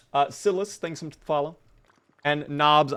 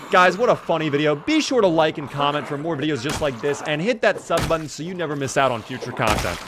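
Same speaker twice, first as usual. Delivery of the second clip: mock YouTuber outro; 3 semitones higher than usual. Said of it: "this is not a YouTube prank video".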